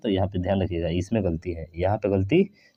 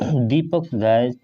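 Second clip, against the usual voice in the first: slow reading; slower than usual. Shown as a demonstration. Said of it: "नहीं भाई साहब, चराता है".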